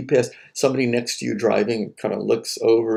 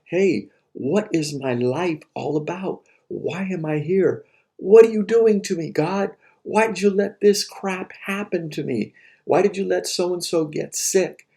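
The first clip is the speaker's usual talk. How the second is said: higher, pleading questions to God; despairing plea; 5 semitones higher than usual. Retold or imitated. Student imitating someone railing at God, higher and anguished. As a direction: cry out to heaven in mock anguish.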